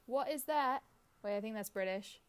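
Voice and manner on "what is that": lightly imitated Australian accent; puzzled tourist with an attempted Australian accent. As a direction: play a bewildered Australian visitor. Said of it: "tourists come in from Australia".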